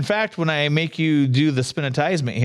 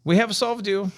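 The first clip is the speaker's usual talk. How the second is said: higher, soothing mock therapist; 7 semitones higher than usual. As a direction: play a gentle counselor probing questions. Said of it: "I have a therapist voice".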